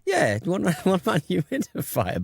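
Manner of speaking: laughing. Real, not acted. Cracking up while teasing a co-host about sneezing. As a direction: giggle out the joke.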